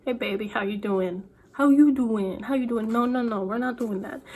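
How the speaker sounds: put-on a light New York Italian mobster accent, slick and flirty. Author playing her mobster character, light New York Italian accent. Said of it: "He doesn't actually have an Italian accent".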